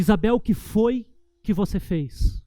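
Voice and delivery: a father's stern question to his daughter. Shown as a demonstration. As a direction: ask it like a father calling a child to account. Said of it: "Desse jeito".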